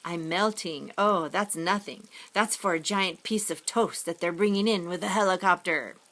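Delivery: lightly creepy, drawn-out villain voice, slowed on the first lines; a hint of a horror-movie ghoul savoring the butter. Boy hamming up a mock creepy voice for his friend. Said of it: "he talks in a creepy voice".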